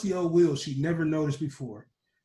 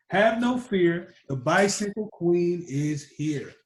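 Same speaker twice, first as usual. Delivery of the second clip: loud, slow royal announcement; a girl reassuring friends like a proud queen; bicycle queen's proclamation; 3 dB louder than usual. Acted. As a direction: declare it like a queen arriving. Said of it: "But Sally Jean said".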